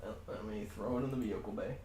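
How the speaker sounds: Pippi voice. Acted. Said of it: "my Pippi voice".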